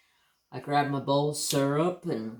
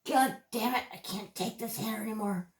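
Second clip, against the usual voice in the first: high-pitched, fed-up cry; exasperated outburst; 8 semitones higher than usual. Retold or imitated. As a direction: snap from sheer frustration. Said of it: "wake up one day and go".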